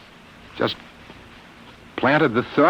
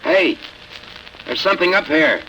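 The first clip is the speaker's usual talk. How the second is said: tense pilot report; 3 semitones higher than usual. Acted. Reliving the flight in trance.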